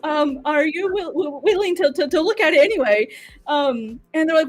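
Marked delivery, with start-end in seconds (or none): 0.0-3.1 high, laughing nervous stammer; nervous pitch. Retold or imitated. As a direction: stumble through it, scared and giggly.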